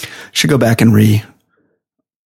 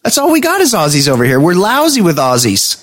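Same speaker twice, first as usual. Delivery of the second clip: mock Australian accent; 10 semitones higher than usual. Mocking Aussie complaint.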